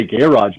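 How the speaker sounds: "garage" said "gair-ahj" the Ontario way; Ontario pronunciation. Shown as a demonstration. Showing how Ontario folks say it, in an Ontario pronunciation. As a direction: say "garage" slowly with an Ontario flat first vowel. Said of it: "Up here in Ontario, we say".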